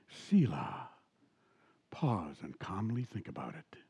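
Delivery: low breathy whisper of the radio host; imitating the radio host in a whisper. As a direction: hush it right down, a whispered sign-off. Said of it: "and he would talk like this".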